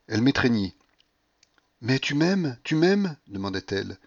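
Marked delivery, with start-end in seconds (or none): 1.8-3.2 high, urgent lover's question; pitched up, insistent; feverish questioning. A narrator's reading. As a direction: ask it desperately. Delirious Paulina asks for love.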